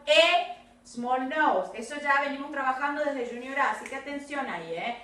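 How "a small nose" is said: "a small nose" slowly, leaning on "a"; stress on A. Shown as a demonstration. Teacher flags the article for the class, stress on "a". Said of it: "Ojo, she has got".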